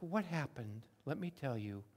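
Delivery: put-on soft, gentle dad to a hurt toddler; tender father. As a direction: hush and comfort him gently. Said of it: "that tender conversation".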